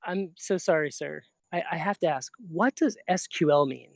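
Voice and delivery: soft, apologetic student question; sheepish question. Retold or imitated. Student asking teacher after class demo, sheepish and soft. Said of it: "and I said".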